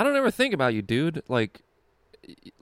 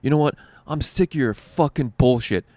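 mock angry rant, louder; imitating a comic who snaps at the host; losing it on stage; 4 semitones higher, 5 dB louder than usual. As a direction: comedian blowing up at the host mid-set, mock angry rant. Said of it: "Loses his shit on stage".

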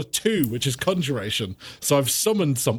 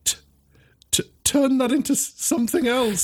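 higher, halting pupil voice; nervous stammer; 9 semitones higher than usual. Acted. Pupil asked to transform a dummy, nervous stammer. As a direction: stumble over it in disbelief. Pupil startled by impossible task.

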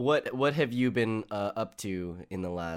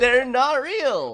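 laughing; 11 dB louder, much slower than usual. Real, not acted. Laughing through denial of cooties.

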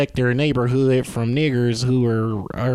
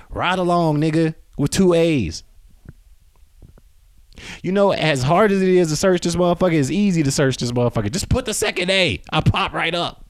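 yelling; 5 semitones higher than usual. Real, not acted. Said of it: "Why am I yelling at y'all?".

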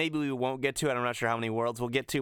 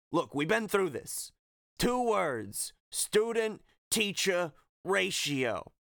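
weary trainer, higher-pitched; Phil; 6 semitones higher, slower than usual. Acted. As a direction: spell it out slowly for a pupil. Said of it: "He says".

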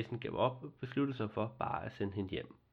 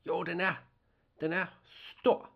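put-on higher and louder, eager child; exclaiming; 8 semitones higher, 5 dB louder than usual. Girl exclaims to the nisse about his big nose, higher and louder. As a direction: blurt it out, delighted. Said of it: "udbrød pigen".

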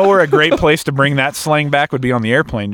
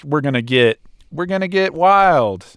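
higher, pumped-up party voice; hyped party dude; 4 semitones higher than usual. Retold or imitated. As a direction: get everyone wild. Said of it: "so turnt is like".

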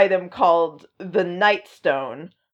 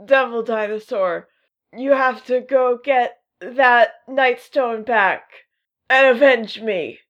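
overacted death scene; 3 semitones higher than usual. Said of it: "Moon Boy's like".

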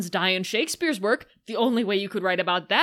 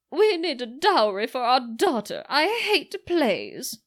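mock whiny wife; 4 semitones higher than usual. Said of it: "comes in and is like".

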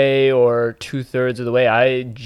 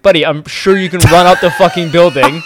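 exasperated rant; 5 semitones higher, 7 dB louder than usual. Retold or imitated. Exasperated retelling of hero's excuse.

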